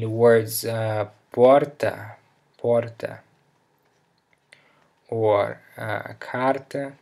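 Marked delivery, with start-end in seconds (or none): 1.3-3.2 porta with a strong breathy h for the r; breathy h starts. Shown as a demonstration. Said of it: "it sounds like an even stronger H". 6.2-6.9 carta with a strong breathy h for the r; breathy h starts. Shown as a demonstration. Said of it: "it sounds like an even stronger H".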